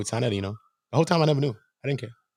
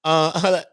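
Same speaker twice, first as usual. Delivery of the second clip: imitated stalling laugh. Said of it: "She's like".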